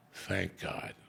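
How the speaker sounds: whispered relief; relieved whisper. Retold or imitated. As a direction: breathe it out as a secret thank-you. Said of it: "and I was like".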